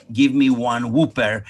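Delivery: Whopper said as "WHOO-pair"; imitating dad's "Whooper" slip; mispronounced Whopper. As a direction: order it with "oo" in Whopper. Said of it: "it's not Whooper".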